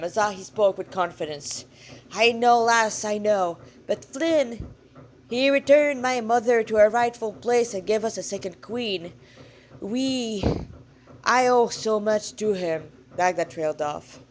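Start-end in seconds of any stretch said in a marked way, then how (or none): 2.1-12.9 louder, softening Irish-tinged god; a god owing a debt, speaking gratefully; grateful old god. Acted. God telling the girl of his debt to Flynn, louder.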